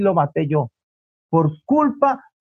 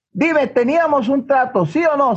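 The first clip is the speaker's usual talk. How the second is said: higher-pitched insistent questioning; stern demanding; 5 semitones higher than usual. Acted. Mother presses her son to answer, acted stern demand.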